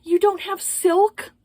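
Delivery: high, slow, snooty mock voice; mocking the customer. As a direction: pitch it way up and drag out the disbelief. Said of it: "she was like".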